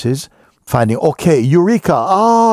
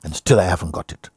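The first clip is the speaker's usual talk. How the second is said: quieter, tired listing of efforts; weary complaint; 4 semitones lower, 5 dB quieter, faster than usual. Retold or imitated. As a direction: complain wearily under your breath.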